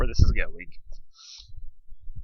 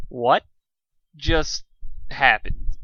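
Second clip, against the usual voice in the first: shocked; 4 dB louder, much slower than usual. Acted. Dusk shocked after the Manticore.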